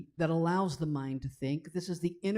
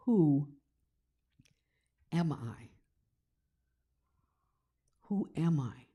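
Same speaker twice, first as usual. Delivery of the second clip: hushed, turning inward into a whisper; whispered self-inquiry. Shown as a demonstration. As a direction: ask it of yourself in a breathy hush. Self-inquiry question, ending whispered.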